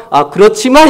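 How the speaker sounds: quick "아, 그렇지만" with a rising protest; objecting. Shown as a demonstration. Pastor showing how he talks back, objecting. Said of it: "저도 꼭 토를 달아요".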